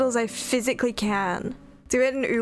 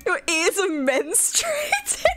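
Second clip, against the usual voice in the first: lightly high mock voice; 6 semitones higher, slower than usual. Mock voice continued.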